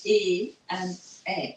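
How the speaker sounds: E as closed é, then eh as open è; two contrasted sounds. Shown as a demonstration. Teacher repeating the comparison for students, contrasted French vowels. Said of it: "two different sounds".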